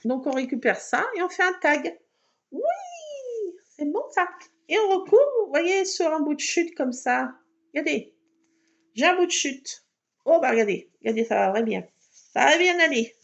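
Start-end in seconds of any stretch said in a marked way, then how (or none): 2.5-13.1 excited. Real, not acted. Self-praise while crafting.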